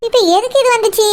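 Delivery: low-pitched grumbling to herself; exasperated aside. Acted. Daughter-in-law dreads sister-in-law's arrival, exasperated aside. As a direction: grumble privately in sour dread.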